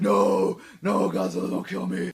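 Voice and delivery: loud, high, begging cry; pleading monster. Retold or imitated. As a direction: beg for your life in a mock panic. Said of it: "Kaijus were like".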